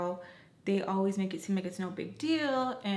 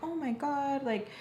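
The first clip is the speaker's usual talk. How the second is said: really sweet. Retold or imitated. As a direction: imitate a sweet, admiring cousin. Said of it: "being really, really sweet to her".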